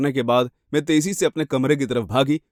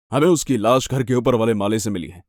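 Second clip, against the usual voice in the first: lightly lowered officer voice; grave policeman; 4 semitones lower than usual. Acted. Police officer revealing a body was found, low and grave. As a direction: deliver the news officially, voice down.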